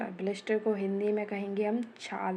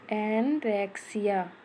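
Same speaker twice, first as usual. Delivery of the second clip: slow, careful; 4 dB louder, slower than usual. Shown as a demonstration. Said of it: "ध्यान से पढ़िए".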